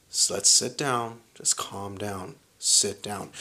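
slow, low de-escalating voice; calming. Retold or imitated. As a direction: talk someone down slowly and softly. Soothing someone poised to fight.

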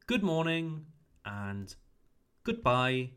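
"good" said with a short oo. Shown as a demonstration. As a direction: clip the oo in "good morning" and "goodbye". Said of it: "oo sound shorter".

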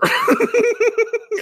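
a real, squealing laugh that jumps up high; high burst of laughter. Real, not acted. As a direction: break into a high, helpless laugh. Laughing at own joke.

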